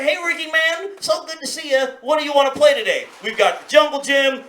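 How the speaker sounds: high, eager hello to a playmate; eager child. Retold or imitated. Seven-year-old greets his best friend to plan playtime, eager. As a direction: pitch it up like a keen kid.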